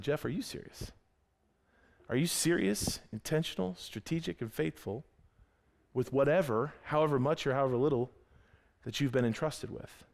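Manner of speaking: a quiet mentor pulling him aside; gentle rebuke. Retold or imitated. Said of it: "pulled me off the side and said".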